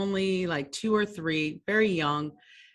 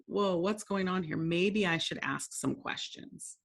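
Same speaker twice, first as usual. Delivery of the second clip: calm self-check; 6 dB quieter than usual. Retold or imitated. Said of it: "and go".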